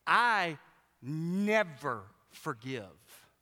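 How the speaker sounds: slow, hard, drawn-out general's voice; a hint of a stern general, dragging out never forgive. Oglethorpe quoted to Wesley.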